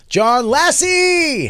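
high, slow squeaky John Lassie; silly high voice. Real, not acted.

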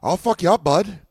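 hammed-up threat; mock Canadian tough guy. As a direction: puff up like a Canadian heckler picking a fight. Mimicking an Edmonton tough guy.

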